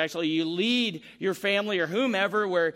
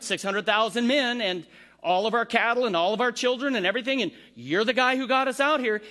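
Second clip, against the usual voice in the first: a complaining crowd, growing louder toward Moses; grumbling Israelites; 4 semitones higher, 3 dB louder than usual. Retold or imitated. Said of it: "Can you not just hear".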